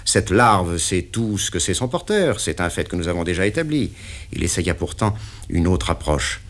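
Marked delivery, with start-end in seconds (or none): 0.1-3.9 the boss pinning down the deal; interrogating patron; stern boss. Acted. Patron speaks.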